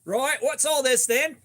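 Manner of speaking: slow, hammed-up British bobby accent, half slipping into Australian; a British policeman's stern question in a lightly put-on accent; mock British copper. A streamer playing a British copper who catches someone with coconuts, in a wobbly mock British accent. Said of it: "I think I get trapped somewhere between British accent and Australian accent".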